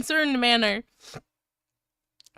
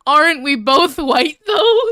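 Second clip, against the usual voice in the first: laughing read; 4 dB louder than usual. Acted. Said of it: "I'll read this out to you".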